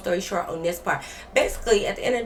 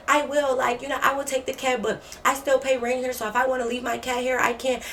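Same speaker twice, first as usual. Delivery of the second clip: roommate mimicked, higher and whiny; higher mock roommate voice; 6 semitones higher than usual. Imitating the roommate arguing about the cat, higher pitched. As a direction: mimic her insisting on staying, pitched up.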